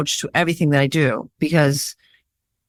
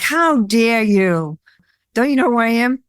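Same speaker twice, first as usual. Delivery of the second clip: mock indignation; 5 semitones higher than usual. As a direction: play the offended diva, half joking. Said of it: "instead of reacting and being triggered".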